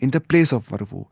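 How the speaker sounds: very slow, spelled-out translation; teacher slowly glossing the Arabic term. Shown as a demonstration. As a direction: spell the meaning out word by word. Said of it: "फ़ी महल रफ़इन".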